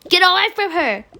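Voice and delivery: loud heroic order; commanding shout. Acted. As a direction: shout the zombie off. Hero fights zombie again.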